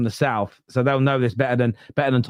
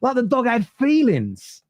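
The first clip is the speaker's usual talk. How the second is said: laughing disbelief; 13 semitones higher than usual. Real, not acted.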